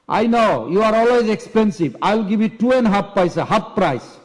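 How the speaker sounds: acted mild indignation; haggling customer. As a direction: push back on the price. Acted haggling over banana prices.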